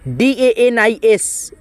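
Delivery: slow, letter by letter; slow spelling. Shown as a demonstration. Teacher spelling a name for students, slowly letter by letter. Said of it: "teacher spells letter by letter".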